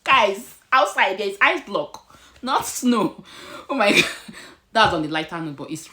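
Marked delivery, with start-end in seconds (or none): 0.0-3.2 loud high astonished cry about the ice; shocked exclaiming. Real, not acted. 3.7-4.1 laughing oh my god. Real, not acted. Reacting to ice.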